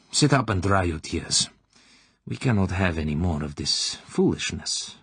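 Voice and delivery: a lightly voiced cold interrogator, commanding; stern colonel. Klebb ordering the weeping girl to stop crying, sternly. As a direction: press her for names, clipped and controlled.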